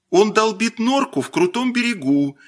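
put-on high-pitched eager girl's voice; girl butting in. A narrator's reading. Zoya breaking into the boys' conversation, eager and high. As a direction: cut in eagerly, pitched well up. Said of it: "вмешалась в разговор Зоя Загородько".

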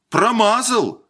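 high-pitched gleeful call; joyful cry. A narrator's reading. Spectators cheering the shooter's second miss, joyful cry. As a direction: crow it high with delight. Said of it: "радостно крикнули зрители".

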